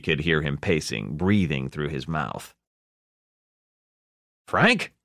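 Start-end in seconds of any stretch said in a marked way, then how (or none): 4.5-4.9 high, loud sudden rise; shocked who's-this question; startled recognition. A narrator's reading. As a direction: catch yourself in surprise. Ed recognizes the caller.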